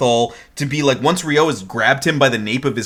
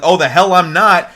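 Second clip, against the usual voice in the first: higher, louder comeback; mock indignant retort; 4 semitones higher, 5 dB louder than usual. Kid rejecting being Ryo's son, mock indignant. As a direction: snap back in mild mock protest. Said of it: "Nalio's like".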